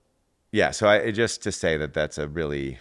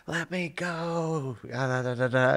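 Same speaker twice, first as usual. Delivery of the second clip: high, drawn-out imitation of a struggling child; mock child tantrum; 10 semitones higher, slower than usual. Imitating daughter on a tear while being contained, mock wailing. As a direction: mimic a kid wailing to be released. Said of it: "on a tear".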